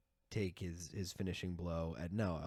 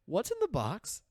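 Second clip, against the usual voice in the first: high-pitched hammed-up question; mock-desperate, high wail of a question; dramatic mock cry; 11 semitones higher, 4 dB louder, slower than usual. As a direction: push the pitch way up, imitating melodrama. Imitates anguished question ending episode.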